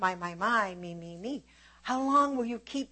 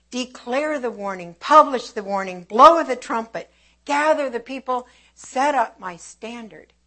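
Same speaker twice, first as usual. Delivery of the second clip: proclaiming command; 8 dB louder than usual. Acted. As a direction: sound the alarm like a trumpet blast. God commands messengers to warn.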